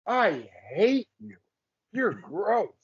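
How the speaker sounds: very slow, deliberate fan contempt; mock hateful fan. Actor imitates fans who hate his villain, slowly. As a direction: spell out the fan's hatred slowly. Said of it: "Oh, he's amazing at it".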